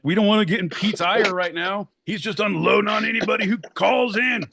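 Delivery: high-pitched mock alarm; mock confused callers. Callers scared off by Pete's ire, high mock panic. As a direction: imitate panicked listeners, voice pushed way up. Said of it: "They're like".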